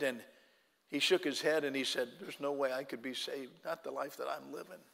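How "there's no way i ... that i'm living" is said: hushed broken confession. Retold or imitated. Broken man weeping at altar.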